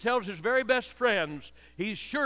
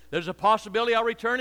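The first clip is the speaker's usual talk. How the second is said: mock doubtful paraphrase; 5 semitones higher, 6 dB louder, faster than usual. Mocking a watered-down promise.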